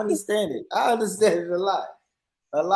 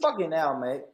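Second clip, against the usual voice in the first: put-on British accent; 4 semitones higher, 9 dB louder, slower than usual. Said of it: "Do another accent".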